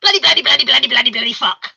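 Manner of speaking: mock the swearing through laughter; laughing mock swearing. Mocking the friend's swearing.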